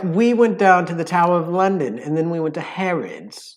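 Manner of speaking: prim, carefully sounded London English; London accent with crisp enunciation; enunciated London accent. Acted. Showing the listeners London speech, enunciated London accent. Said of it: "like, enunciated sound".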